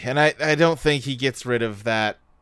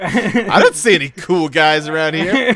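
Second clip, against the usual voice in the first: laughing; 5 dB louder than usual. Retold or imitated. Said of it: "that phrasing is so much better".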